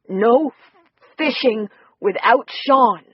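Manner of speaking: slow, a bit of a scolding tone; mild scolding. Acted. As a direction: gently tell the little girl off. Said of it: "in a bit of a scolding tone".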